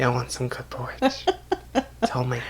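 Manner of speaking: very soft, low whisper; creepy mock whisper. Prankster offering porridge through a mail flap, creepy whisper. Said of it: "whispering the thing".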